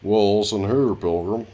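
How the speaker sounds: a hint of John Wayne; John Wayne impression. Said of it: "sounded like John Wayne".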